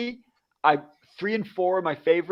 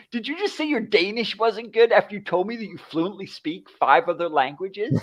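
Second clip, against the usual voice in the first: mock disbelief, pitched up; incredulous; 5 semitones higher than usual. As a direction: retell your astonished challenge to a friend. Retells his disbelief at friend.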